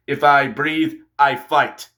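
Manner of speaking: lightly imitated Russian accent; a hint of mock-Russian. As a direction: put on a slight Russian accent. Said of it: "give him a Russian accent".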